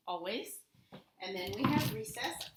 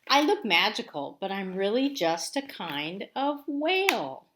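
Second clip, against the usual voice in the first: narwhal voice; 8 dB louder than usual. Acted. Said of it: "He's saying".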